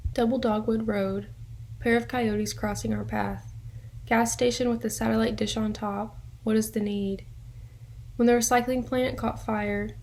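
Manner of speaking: measured poem recital with pauses between lines; poetry reading. Acted. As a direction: read your own poem, line by line. Reads own poem aloud.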